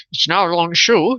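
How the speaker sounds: hint of an old TV host; lightly hammed showman announcing; Ed Sullivan voice. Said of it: "I sound like Ed Sullivan today".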